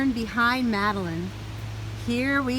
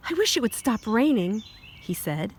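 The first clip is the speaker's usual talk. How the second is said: put-on reading to children. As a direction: clear storybook read-aloud. Reads picture book aloud.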